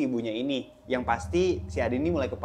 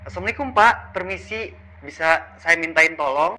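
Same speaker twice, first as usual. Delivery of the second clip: raised, higher voice calling politely; son seeking help; 4 semitones higher, 7 dB louder than usual. Acted. Adi calls on the ustadz late at night, pleading for help. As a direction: call out politely, pitched up. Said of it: "Adi berkata nih".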